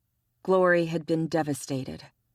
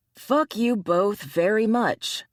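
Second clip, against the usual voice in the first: slow, louder irritated retort; annoyed; 4 semitones higher, 4 dB louder, slower than usual. Acted. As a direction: bite it off, fed up. Ryan snaps back at teasing.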